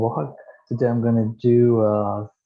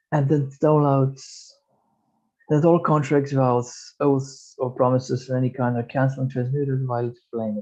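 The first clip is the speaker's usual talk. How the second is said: measured prayerful meditation voice; guided meditation. Acted. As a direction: intone it like a healing prayer. Leads a healing prayer and affirmations.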